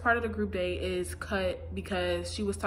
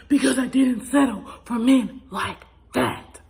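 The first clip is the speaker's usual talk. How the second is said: imitating Claire; 3 semitones higher, 10 dB louder than usual. Mimicking Claire's tearful line, loud and cracking. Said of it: "I can't do it exactly how she did it".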